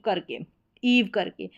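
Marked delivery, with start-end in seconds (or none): 0.8-1.1 "ईव" as one syllable ending in v; "eive" as eev. Shown as a demonstration. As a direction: say "ईव" with a long ee. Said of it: "इसको ईव करके पढ़ा जाता है".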